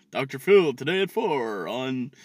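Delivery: lightly mocked TV promo read; promo announcer.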